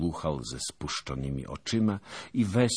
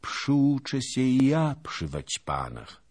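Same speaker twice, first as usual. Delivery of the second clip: slow, gentle and higher; sweetly; 11 semitones higher, 4 dB louder than usual. A narrator's reading. Longinus answering Zagłoba's jibe, slow and sweet. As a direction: say it with meek sweetness. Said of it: "rzekł ze słodyczą".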